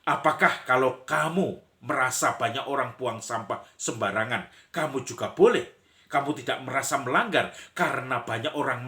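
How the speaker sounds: heated rebuttal, loud at first then easing; acted indignant defender. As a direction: play a bystander backing the scolder. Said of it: "Lalu pembela yang melarang".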